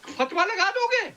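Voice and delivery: pitched high, daring him to act; mock him: go on, what will you do; taunting challenge. Real, not acted. Panelist taunting a rival who threatened him, high and scornful. Taunting opponent in heated debate.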